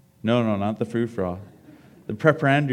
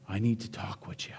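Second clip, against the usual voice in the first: hushed, low whisper; 5 semitones lower, 11 dB quieter than usual. A narrator's reading. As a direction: whisper it privately to a friend. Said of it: "Jack whispered".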